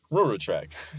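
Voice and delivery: "Railroad tracks" with "Railroad" mostly lost; swallowed syllables. Shown as a demonstration. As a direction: mumble "Railroad" down to two soft r sounds. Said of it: "lose most of the word".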